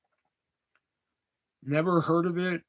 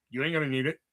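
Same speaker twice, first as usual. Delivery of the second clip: villain line; 3 semitones lower, 6 dB quieter, faster than usual. Retold or imitated. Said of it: "the way he delivers that".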